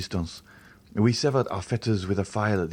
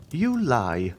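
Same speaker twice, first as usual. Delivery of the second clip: sharper, more insistent command; more imperative; 3 semitones higher than usual. A narrator's reading. Abbé repeating the accusation, still more imperatively. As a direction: press him harder the third time. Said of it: "with a still more imperative tone".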